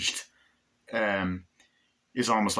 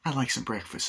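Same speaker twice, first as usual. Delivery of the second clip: lightly voiced customer; milder retake of the order; redone, less Nicholson; 3 semitones higher than usual. Customer ordering breakfast again, lightly voiced. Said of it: "that was more like Jack Nicholson".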